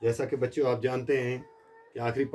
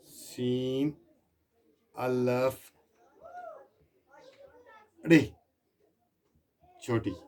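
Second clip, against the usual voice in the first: slow spelled-out letters; much slower than usual. Shown as a demonstration. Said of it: "अगर इसको खोल के लिखेंगे हम, देखो".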